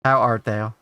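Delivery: a lightly hammed-up old-fashioned greeting; half-hearted theatrical voice, mocking his own attempt; mock-grand greeting, barely put on; cringey put-on voice. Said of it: "I'm cringing at my own voice".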